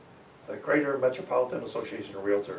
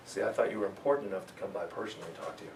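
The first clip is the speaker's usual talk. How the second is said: personal pitch; 6 semitones lower, 7 dB quieter, faster than usual. Shown as a demonstration. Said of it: "You see the distinction right away?".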